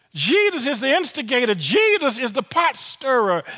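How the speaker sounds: preaching emphasis. Acted.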